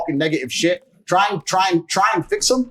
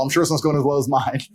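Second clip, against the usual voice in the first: mocking laugh; 4 semitones lower than usual. Real, not acted. Mocking Tony, then laughing.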